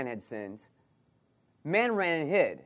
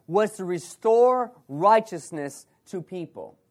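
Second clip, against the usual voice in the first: full-force preaching; 3 semitones higher, 4 dB louder than usual. Acted. Preaching the key verse.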